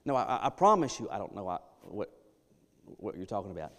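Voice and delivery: flustered insistence. Retold or imitated. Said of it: "the volume gets turned up".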